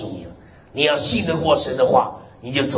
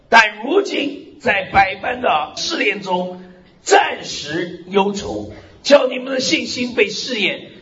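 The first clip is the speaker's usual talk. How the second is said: scripture reading; 4 semitones higher than usual. Acted. Reads Peter's epistle aloud. (缓慢庄重地朗读经文)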